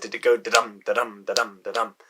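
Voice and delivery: "da-dum" with a light beat on each "dum"; iambic rhythm. Retold or imitated. Destiny asking the narrator about the prophecy, lightly tapping the iambic beat. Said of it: "was it an iambic tetrameter".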